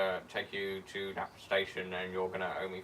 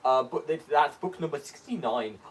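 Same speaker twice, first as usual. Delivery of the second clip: high-pitched, eager character voice; Theo, earnestly insisting; 9 semitones higher, 5 dB louder than usual. Acted. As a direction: plead your case in a high voice.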